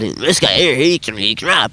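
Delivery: lightly voiced dad, low; imitating his dad. Dad vouching for a rapper he knew, imitated low. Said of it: "'Cause that's how he talks".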